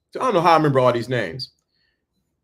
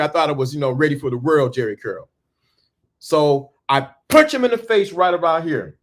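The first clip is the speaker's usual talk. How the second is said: ordinary delivery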